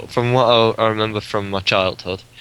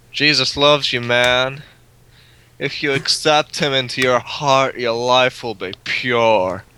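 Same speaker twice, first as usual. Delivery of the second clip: camp preacher; slower than usual. Retold or imitated. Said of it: "it probably wasn't as camp as that".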